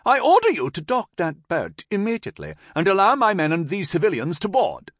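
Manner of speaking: loud, high-pitched officious order; obnoxious shriek. A narrator's reading. Lieutenant ordering the ferryman to dock, shrieking. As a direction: shout a command in a high, obnoxious voice. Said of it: "Palmer shrieked obnoxiously at".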